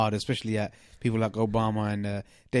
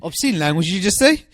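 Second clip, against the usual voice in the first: teasing disbelief; 6 semitones higher, 5 dB louder than usual. Real, not acted.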